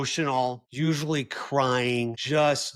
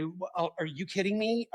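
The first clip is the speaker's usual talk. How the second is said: defensive retort; 5 semitones higher, 6 dB quieter than usual. Retold or imitated. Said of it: "I get defensive".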